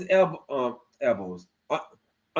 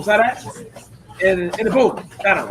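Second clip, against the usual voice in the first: excited; 3 semitones higher, 4 dB louder than usual. Real, not acted. Fighter proudly shows chat his takedown, excited. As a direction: crow about the takedown.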